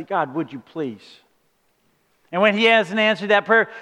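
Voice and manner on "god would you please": soft, slow polite plea; asked nicely. Retold or imitated. Sermon retelling a nice prayer, soft and slow. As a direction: ask very gently and slowly. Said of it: "you've asked God so nicely".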